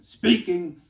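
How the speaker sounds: very loud, rough "Speaking."; gruff punchline. Retold or imitated. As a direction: bark the one word like a tough guy. Susan answers in gruff voice.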